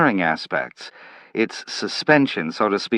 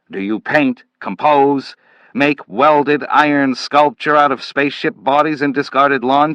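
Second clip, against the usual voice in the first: louder, higher contemptuous lecture; scornful scolding; 4 semitones higher, 3 dB louder than usual. Acted. Manville berating Slade for being passive, loud and scornful. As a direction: jab each question at him.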